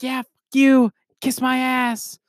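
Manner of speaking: high mocking taunt; taunting agent. Retelling the agent taunting before dying, high jeer. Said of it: "He was like".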